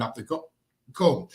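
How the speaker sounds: speaking through hiccups. Real, not acted. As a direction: talk with the hiccups catching your words. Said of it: "Excuse me, I've got the hiccups".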